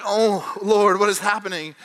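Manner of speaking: comic inner cry of disbelief; alarmed. Retold or imitated. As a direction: play up the sudden alarm. Shocked reaction at dinner, retold.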